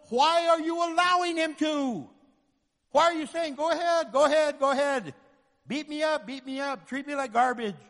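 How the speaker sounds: fiery rebuke. Acted. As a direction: shake them awake. Preacher rebuking.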